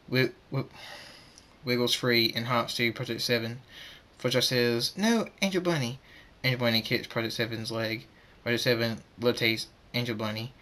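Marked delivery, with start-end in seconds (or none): 5.0-6.0 high, alarmed protest; frightened plea. Acted. Fluttershy sees Angel Bunny hop to danger, high frightened plea. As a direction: plead with a pet to stop. Pleading as pet hops into danger.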